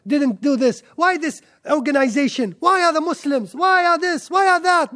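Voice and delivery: mock a fault-finder's rising grievances; negative complainer. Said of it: "The negative energy".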